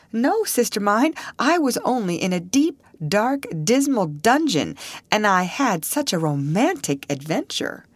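put-on high, dramatic girlish telling; playful Alice. A narrator's reading. Alice teasing her sister about the dungeon, playfully dramatic.

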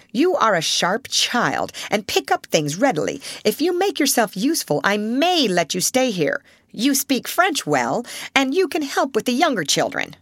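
cold headmistress. Acted. Headmistress sets terms.

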